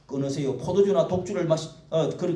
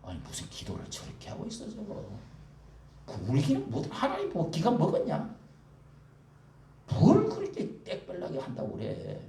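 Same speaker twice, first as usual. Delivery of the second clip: mocking onlooker; 3 dB quieter than usual. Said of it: "이러니까 옆에서".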